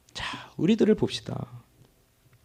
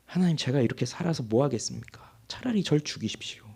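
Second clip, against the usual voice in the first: hopeless resentful plea; 4 semitones lower, 5 dB quieter than usual. Retold or imitated. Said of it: "그런 원망과 포기의".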